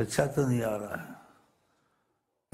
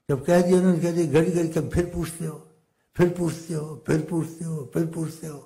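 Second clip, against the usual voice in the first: irritated outburst; 4 semitones higher, faster than usual. Acted. Merchant scolds the visitor for repeating himself, irritated and fast. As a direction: snap at him for asking over and over. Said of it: "اس کو غصہ آ گیا".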